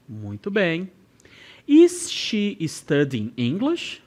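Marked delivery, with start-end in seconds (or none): 1.7-4.0 slow drill model. Shown as a demonstration. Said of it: "me escutar e repetir junto comigo".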